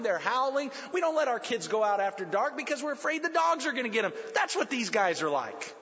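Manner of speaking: a lightly voiced, urgent psalmist; voicing the psalmist. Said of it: "he says".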